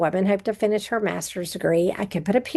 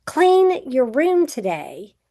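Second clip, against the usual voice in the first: slow, firmer parent command, a bit louder; 3 semitones higher, 3 dB louder, slower than usual. Shown as a demonstration. Parent telling a child a seventh time, slow firm command. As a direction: demand it with emphasis, like a parent fed up. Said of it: "they may say it a little bit louder".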